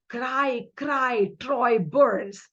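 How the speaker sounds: "Cry, cry, Troy burns" with every word stressed; spondaic stresses. Shown as a demonstration. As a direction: recite "Cry, cry, Troy burns" as equal heavy beats. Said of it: "two meters of spondy".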